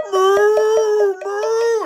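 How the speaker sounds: high, loud moo; high hammed-up moo; cow moo. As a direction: call out like a cow. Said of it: "She started going".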